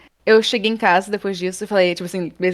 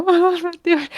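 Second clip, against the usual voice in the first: laughing dismay; 10 semitones higher than usual. Retold or imitated.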